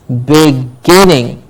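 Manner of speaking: "beginning" slowly, weight on GIN; slow "beginning" with a strong middle syllable; stress on GIN. Shown as a demonstration. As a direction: say "beginning" as big, GIN-ning, stretched. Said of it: "Gin gets the stress".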